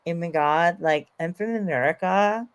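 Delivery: imitating a Californian American accent, rising ends; lightly mocked California-style American accent. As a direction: put on a California accent with upturned endings. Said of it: "You don't sound like that unless you're from California".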